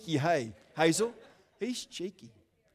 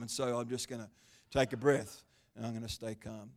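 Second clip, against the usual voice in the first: deliberately quiet, lower, taking a breath; forcing calm; 8 semitones lower, 8 dB quieter than usual. Real, not acted. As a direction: talk yourself down to a hush. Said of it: "I promised I'd stay calm".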